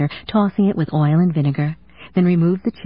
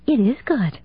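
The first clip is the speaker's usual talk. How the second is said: higher, puzzled surprise; bewildered; 6 semitones higher than usual. A narrator's reading. Hallie tasting his cooking, bewildered. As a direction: taste it and not believe it. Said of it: "sounding bewildered".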